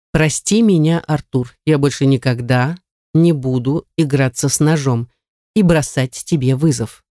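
captor dictating. Acted. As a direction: spell it out for her to repeat.

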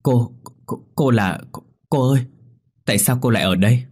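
put-on high, fast startled call of a boy; startled cry. A narrator's reading. Boy spots Linh in Cần's yard, startled high cry. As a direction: blurt it out, shocked to see her. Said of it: "nó hét lên".

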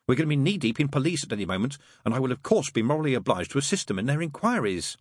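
prim angel. Acted. Aziraphale warning Crowley about police, mildly urgent. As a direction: press on with mild urgency. Angel urging demon to hurry.

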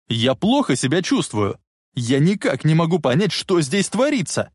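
distraught cry. A narrator's reading. Marty protesting to his mother, distraught cry. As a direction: cry out in bewilderment, pitch rising. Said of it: "закричал он".

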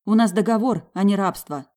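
wife snapping back in an argument; angry retort. A narrator's reading. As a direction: throw it back at him. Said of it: "heated argument".

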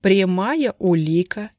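slow, cutting and loud; blade-sharp. Acted. Stepan hammering the evidence home, slow and sharp. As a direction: lay each word down like a blade. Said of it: "голос Степана стал острым, как лезвие".

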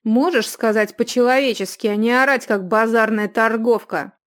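loud angry rebuke; angry youth. A narrator's reading. Youth rebuking the yelling innkeeper. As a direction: tell her to stop yelling. Youth scolds shouting woman.

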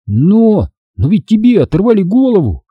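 high, stammering cry; shouted out. A narrator's reading. Boy shouts at the ghost that his head was torn off. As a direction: blurt it out in a frightened shout. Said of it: "выкрикнул я".

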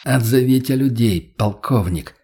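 firm, commanding order; brooking no objection. Acted. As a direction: cut him off, no arguing. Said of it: "нетерпящим возражения тоном".

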